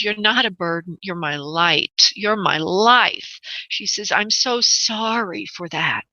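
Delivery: slow, tender, slightly choked words; slow right down and let the emotion catch a little; touch of choked up. Real, not acted. Medium relaying the mother's apology, slow and slightly choked. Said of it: "I'm getting a little bit choked up".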